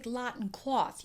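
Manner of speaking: "cloth" with an aw, kept apart from "lot"; Chicago aw. Shown as a demonstration. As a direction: say "lot and cloth" as two different vowels. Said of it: "Chicagoans did have that sound aw".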